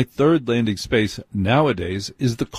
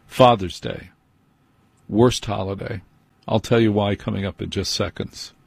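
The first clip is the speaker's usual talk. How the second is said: normal talking voice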